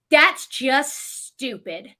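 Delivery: slow, drawn-out disapproval; imitated judgment, each word stretched; seeking validation. Stranger looks over for agreement, disapproving. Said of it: "she's looking for my validation".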